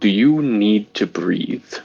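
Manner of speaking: quiet, low, hushed confidential voice. Game master voices a character asking discreetly, in a low voice. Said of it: "in a low voice is going to ask".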